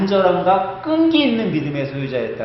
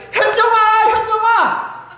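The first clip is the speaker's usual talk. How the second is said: high, loud calling of a name; mock nagging call; 5 dB louder, much slower than usual. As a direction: call her name over and over. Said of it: "계속 부른다고 해봐".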